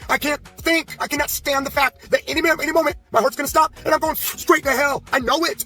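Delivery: pleading to himself, quoting his past fear of hell; retold panic. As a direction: relive the terror of dropping dead any minute. Retold panic about dying.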